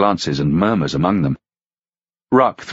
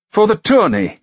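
higher, louder mocking knight; knight's voice; 4 dB louder than usual. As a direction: toss it off with a smirk.

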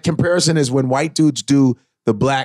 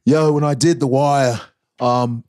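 Idris Elba impression; slower than usual. Shown as a demonstration. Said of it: "Idris Elba in you".

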